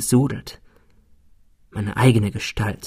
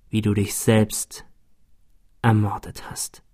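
fading whisper; 3 semitones lower, 4 dB quieter than usual. Acted. Dying words fading.

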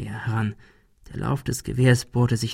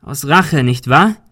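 loud accusing call; detective shouts an accusation; 3 semitones higher, 6 dB louder, slower than usual. Acted. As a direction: call the motive out. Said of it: "rief Ben".

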